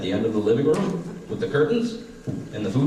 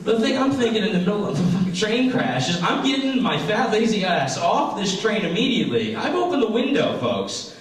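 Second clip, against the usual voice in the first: hammed-up selfish panic; 12 semitones higher than usual. Selfish panic monologue on stage.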